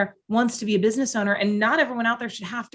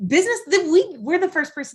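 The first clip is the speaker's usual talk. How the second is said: getting emotional; 7 semitones higher than usual. Real, not acted. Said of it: "she started getting emotional".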